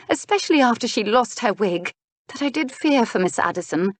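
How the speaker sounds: a hint of earnest young lady; relieved young lady. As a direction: explain with mild relief. Miss Taylor explains, relieved.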